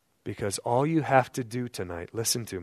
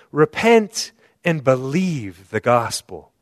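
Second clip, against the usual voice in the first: correct quote; 2 semitones higher, 7 dB louder, slower than usual. Shown as a demonstration. Preacher corrects the misquote for the church, loud. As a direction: boom out the true words of Jesus. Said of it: "That's not what he said".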